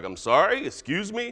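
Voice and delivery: lightly voiced affronted mother, rising at the end; mom tone. God answering people who yell, mild mom tone. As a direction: query it like a mom taken aback. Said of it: "the mom tone comes into that".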